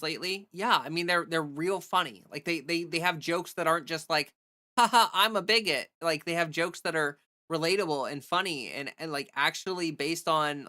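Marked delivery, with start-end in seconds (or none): 4.8-5.9 mocking bigot voice. Mocking right-wing joke caricature.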